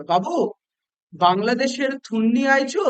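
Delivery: put-on slow, drawn-out question from an old Pathan; curious. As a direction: ask with mild, interested curiosity. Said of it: "curious ভাবে". (কৌতূহলী ভাবে টেনে প্রশ্ন)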